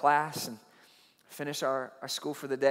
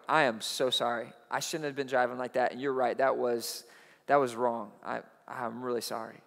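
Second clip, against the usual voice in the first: much lower, soft, contrite confession; humble apology; 7 semitones lower, 8 dB quieter than usual. Retold or imitated. Youth leader confessing to his angry pastor, low and soft. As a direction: own it quietly, head down.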